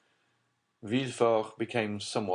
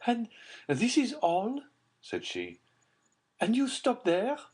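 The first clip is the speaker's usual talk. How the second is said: high Baroness voice; 13 semitones higher than usual. A narrator's reading. Baroness pressing.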